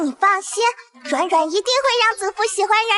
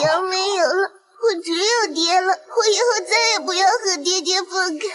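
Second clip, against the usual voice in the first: tearful clinging. Acted. Child sobs, clinging to father.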